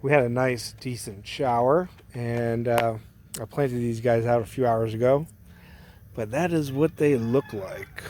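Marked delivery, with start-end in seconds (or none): 3.4-8.0 chewing gum. Real, not acted. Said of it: "Sorry, I got gum in my mouth".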